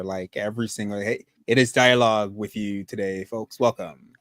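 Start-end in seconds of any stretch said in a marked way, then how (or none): 1.0-3.2 smooth TV anchor intro; newscaster voice. Retold or imitated. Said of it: "I sound like a newscaster". 3.2-4.1 smooth TV anchor intro; newscaster voice. Retold or imitated. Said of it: "It's crazy how I sound like a newscaster".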